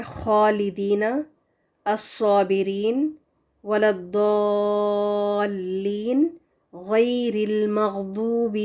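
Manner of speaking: slow, full-mouthed Quranic words with thick letters; teacher's model of tafkhim; heavy letter recitation. Shown as a demonstration. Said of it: "تو دیکھیں".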